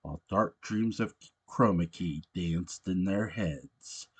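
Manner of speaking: rhythmic storybook narration of a holiday poem; lilting read-aloud verse. Acted. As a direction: read it like a bedtime Christmas poem, bouncing the rhyme. Reads a Christmas parody poem.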